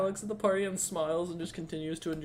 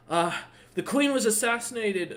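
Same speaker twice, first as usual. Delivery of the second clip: orc messenger; 7 semitones higher than usual. Acted. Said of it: "the messenger goes".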